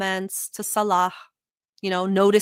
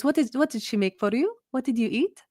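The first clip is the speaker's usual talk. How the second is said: lightly voiced auntie, a touch higher and probing; prying auntie; 4 semitones higher than usual. Auntie pressing Salah about his meals, mild mock nosiness. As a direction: poke for details like a nosy relative. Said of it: "And she goes".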